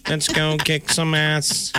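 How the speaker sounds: even machine gun syllables; robot voice. Pretend. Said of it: "I love your robot voice".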